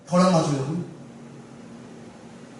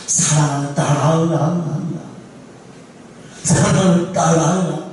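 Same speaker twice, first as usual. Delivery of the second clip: slow, lower, solemn divine call; voice of God; 4 semitones lower, much slower than usual. Retold or imitated. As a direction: call her gently and slowly as God. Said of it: "하나님의 신령한 음성이 들려옵니다". (느리고 낮은 하나님의 음성)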